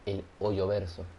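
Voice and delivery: "el hoyo verso" said slowly with stress on "hoyo"; slow joke title. Shown as a demonstration. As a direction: savour the pun "hoyo verso". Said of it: "Escúchate esa". ("el hoyo verso" lento, remarcando "hoyo")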